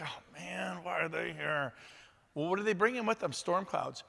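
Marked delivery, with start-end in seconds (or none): 0.0-1.7 quiet groan of dismay. Pretend. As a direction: sigh it under your breath. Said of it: "you're like".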